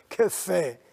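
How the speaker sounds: quiet amazed chuckle; awed laugh. Real, not acted. Preacher marvels at her faith.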